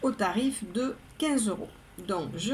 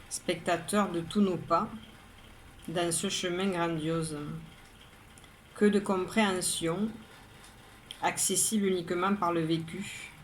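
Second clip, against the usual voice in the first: measured poem reading, a pause after each line; poem recitation. Acted. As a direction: recite line by line, evenly and composedly. Reads poem a third time.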